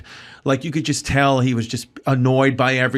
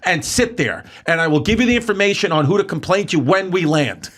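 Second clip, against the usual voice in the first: stern order; 3 semitones higher than usual. Retold or imitated. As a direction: put him in his place, word by word. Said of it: "She goes".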